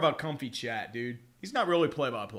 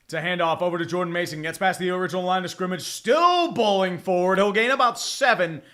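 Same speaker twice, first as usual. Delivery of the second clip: quick football call stretching the key words; live play-by-play. Real, not acted. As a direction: track the runner as it happens. Calls a live running play.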